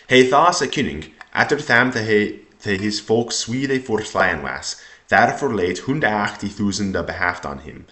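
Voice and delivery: put-on careful reading with Old English sounds; Old English recitation. Shown as a demonstration. Teacher reading the next passage to students, Old English recitation.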